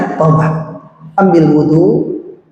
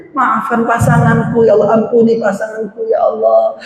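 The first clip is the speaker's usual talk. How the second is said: earnest prayer; 3 semitones higher than usual. Shown as a demonstration. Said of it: "Jangan lupa, masukin itu".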